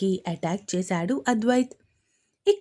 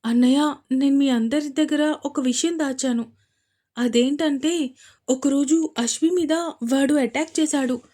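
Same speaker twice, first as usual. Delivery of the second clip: higher voiced, a lightly guilty confession; guilty sister; 5 semitones higher, 4 dB louder than usual. Sister Avantika confesses to her brother, guilty. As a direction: admit the secret to your brother, guiltily. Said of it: "గిల్టీగా చెప్పింది అవంతిక".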